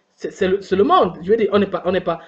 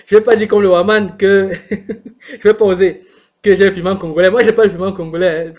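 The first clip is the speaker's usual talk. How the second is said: laughing; 3 dB louder than usual. Real, not acted. Jokey aside while laughing.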